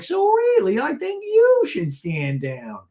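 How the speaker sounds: very high, loud, drawn-out mock scolding; whiny hammed-up impression, stretching the words; Gina. Gina telling Shannon to stand down, mock indignant. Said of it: "And Gina's like".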